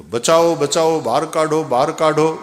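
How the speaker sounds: loud stubborn cries of help; old man in the well bawling for rescue; shouting for help. Retold or imitated. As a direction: keep yelling, refuse to budge. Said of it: "બૂમાબૂમ ચાલુ છે".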